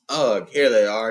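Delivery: a big woodsman muttering to his horses; Beorn, gruff giant. A narrator's reading. Bear-man talking to his horses, gruff and slow.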